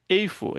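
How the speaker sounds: Eifo with the F sound, said clearly as a model; Hebrew eifo. Shown as a demonstration. Teacher showing students how Hebrew eifo sounds, clear model word. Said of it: "Olha aqui, eifo".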